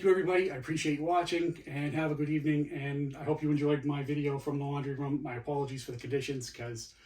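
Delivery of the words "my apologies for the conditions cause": hushed, keeping it down; quiet so wife sleeps. Real, not acted. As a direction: lower the voice, wife asleep. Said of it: "the wife is sleeping".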